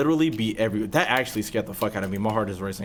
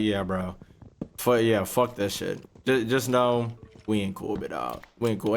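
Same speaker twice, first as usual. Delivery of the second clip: cold sarcasm; 3 semitones lower than usual. Retold or imitated. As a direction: pretend it's fine, coldly. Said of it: "I was like".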